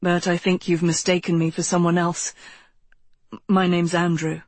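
low, even character voice; polite stranger. A narrator's reading. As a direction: drop the pitch and explain the mistake politely. Stranger corrects her mistaken recognition.

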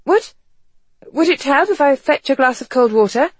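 high, timid, stammering offer; shy halting question. A narrator's reading. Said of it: "in a timid voice that didn't even sound like hers".

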